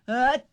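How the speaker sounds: fake sneeze. Shown as a demonstration. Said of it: "it's this".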